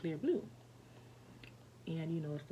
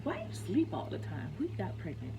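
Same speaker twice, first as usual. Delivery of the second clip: teasing accusation; 6 dB louder than usual. Retold or imitated. Wakes her sleeping man, loudly mock accusing. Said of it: "And I was like".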